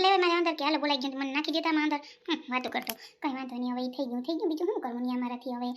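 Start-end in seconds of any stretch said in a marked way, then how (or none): 2.0-5.7 soft resigned mutter under the breath; dropping to a soft, resigned mumble; muttered to herself. Acted. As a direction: grumble it quietly to yourself. Muttering to herself after mistake.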